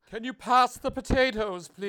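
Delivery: booming regal voice, high and loud; pompous king at a grand banquet; royal voice. Pretend. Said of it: "put on your, like, royal voice?".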